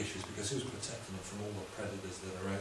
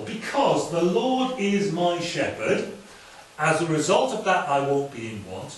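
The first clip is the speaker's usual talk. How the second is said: slow, louder scripture reading; slower reading; 4 semitones higher, 8 dB louder, slower than usual. Shown as a demonstration. Preacher rereads the psalm slowly because a listener asked. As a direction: draw each word out for the congregation. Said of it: "Should we hear it more slowly?".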